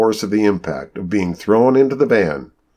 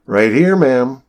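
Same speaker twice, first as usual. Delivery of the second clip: dismissive; 7 semitones higher, 5 dB louder, slower than usual. A narrator's reading. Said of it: "said in a voice that conveyed total disregard".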